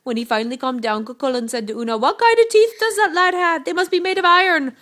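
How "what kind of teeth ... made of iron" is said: high, loud disbelief; astonished giant. A narrator's reading. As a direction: exclaim as if stunned by the baby. Giant amazed after howling.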